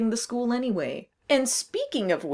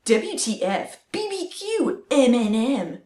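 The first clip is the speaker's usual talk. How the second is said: put-on Valley Girl voice. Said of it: "do the Valley Girl voice".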